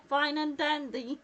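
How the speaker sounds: laughing through the words. Real, not acted. She teases him while laughing about the mishap. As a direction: chuckle the phrase out, loud and high.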